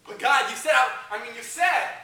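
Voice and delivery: loud, pleading complaint. Acted. Young believer crying out to God, loud and let down. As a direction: call up to God, feeling let down.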